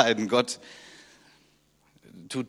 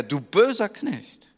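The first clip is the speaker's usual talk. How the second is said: stern rebuke; 8 semitones higher, slower than usual. Retold or imitated. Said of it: "sagt er".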